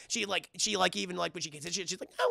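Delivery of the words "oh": hurt yelp like a whining dog; mock canine whine. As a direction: whimper out an imitated yelp. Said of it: "whines like a dog".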